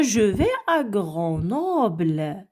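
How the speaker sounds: slow, spelled-out declarative; slow model reading. Shown as a demonstration. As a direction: read it slowly like a textbook line. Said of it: "tu m'as dit déjà".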